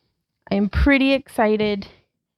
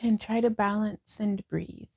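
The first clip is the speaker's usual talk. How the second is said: guided yoga instruction; 2 semitones lower than usual. Acted. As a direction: talk the class through each pose gently. Leads a yoga class.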